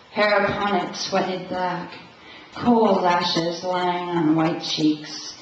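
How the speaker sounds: measured, steady live poem recital; poetry reading. Acted. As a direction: read your poem out, lingering over the images. Reads own poem to audience.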